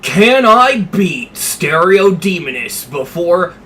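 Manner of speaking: slow, punchy clickbait narrator; YouTuber voice. Shown as a demonstration. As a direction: announce it like a video title. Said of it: "let me channel, uh, my, my YouTuber voice".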